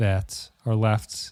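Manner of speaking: slow, drawn-out, stalling speech. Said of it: "I'm speaking slowly".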